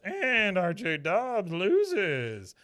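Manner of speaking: slow, high, loud announcer call. Retold or imitated. Announcer telling the stunned crowd the result, booming call. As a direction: drag each word out to the crowd. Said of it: "The announcer goes".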